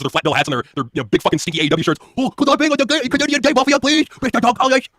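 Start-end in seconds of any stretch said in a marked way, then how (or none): 2.2-4.9 high, whiny mock fanboy plea; higher pleading parody of a fan. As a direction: beg like a desperate neckbeard fan. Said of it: "they would all be wanting".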